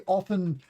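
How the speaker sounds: "often" without the T, off-en; lazy pronunciation. Shown as a demonstration. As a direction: drop the T in often. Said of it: "when I'm being lazy with my language".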